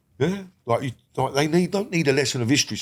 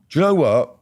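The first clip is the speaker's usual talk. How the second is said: ordinary talk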